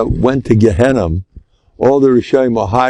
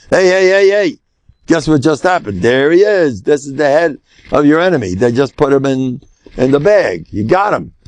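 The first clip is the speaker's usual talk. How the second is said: excited messenger; 3 semitones higher than usual. Acted. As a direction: call out the good news to the king. Messenger brings head to king.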